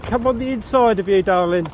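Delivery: loud, friendly call ahead. Real, not acted. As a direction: call out over your shoulder. Calling to walker ahead while passing.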